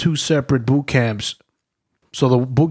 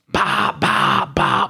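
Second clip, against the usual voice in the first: slow "bah" barks; drawn-out mimicked sergeant barks; imitated barking; 11 semitones lower, much slower than usual. Sergeant comes aboard the bus, imitated barking.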